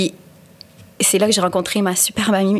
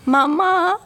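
high, drawn-out "Maman"; high-pitched complaining child; child calling mom; 10 semitones higher than usual. Retold or imitated. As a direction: imitate a kid calling for mom, slowly. Child arriving home to complain.

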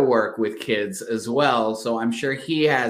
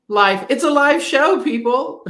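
excited; 13 semitones higher, 6 dB louder than usual. Real, not acted. Host laughing off a frozen call.

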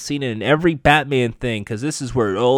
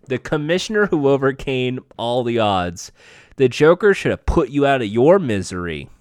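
lightly put-on British villain voice; attempted British accent. Villain taunting Barbara at gunpoint, loose British accent. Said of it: "Now I gotta try to a British accent".

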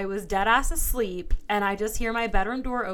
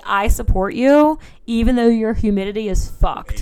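mock solemn address; 7 dB louder than usual. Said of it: "come for Alabama and say".

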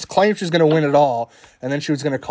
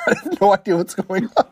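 shocked laughter; 5 semitones higher than usual. Real, not acted. Confused by scene on screen.

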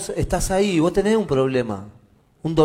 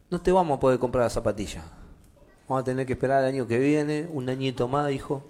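low, soft, quick explanation; gentle father; 3 semitones lower, 5 dB quieter than usual. Acted. Father tells son to wait a year, gently apologetic. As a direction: let the child down gently, voice dropped.

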